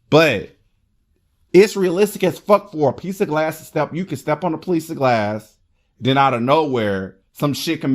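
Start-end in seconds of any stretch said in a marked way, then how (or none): none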